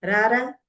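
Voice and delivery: RARA short with a rising end; requesting. Shown as a demonstration. Teacher showing how to ask someone to come, rising RARA. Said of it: "I'm just requesting".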